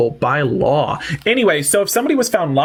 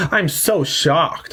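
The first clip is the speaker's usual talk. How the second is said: sarcastic shock; much slower than usual. Pretend. Repeated slow sarcasm.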